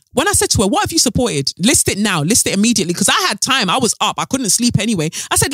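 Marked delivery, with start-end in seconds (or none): 0.7-2.9 high, demanding retort, mock-furious; heated demand. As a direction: snap back a demand at the commenter. Retold heated reply to critic.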